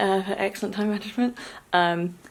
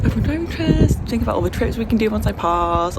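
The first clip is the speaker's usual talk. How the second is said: imitating her past excitement; 4 semitones higher than usual. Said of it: "being like".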